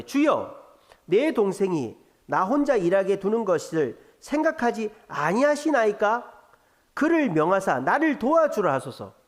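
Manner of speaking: reading Martha's complaint with a touch of reproach; understated scolding plea to the Lord; mild scolding. Acted. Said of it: "예수님을 야단치는 거죠".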